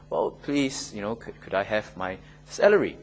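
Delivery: soft, low, politely pleading; gentle polite request. Acted. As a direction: ask meekly and softly, as a gentle request. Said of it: "very gentle, nice letter".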